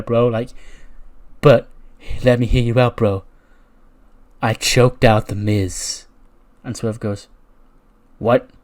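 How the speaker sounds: Riddle voice. Retold or imitated. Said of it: "He goes".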